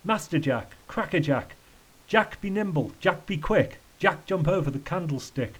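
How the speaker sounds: lightly voiced tramp chanting; a touch of singsong in each phrase; rhyming tramp. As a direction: recite it like a nursery rhyme. Tramp recites rhymes.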